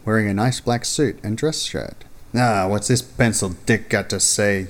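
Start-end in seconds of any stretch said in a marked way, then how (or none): 2.3-4.7 grunt. Acted. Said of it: "you grunt".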